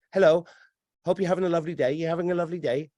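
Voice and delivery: lightly voiced robot cashier greeting; malfunctioning robot. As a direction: mimic a programmed shop greeting. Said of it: "It's a malfunctioning robot".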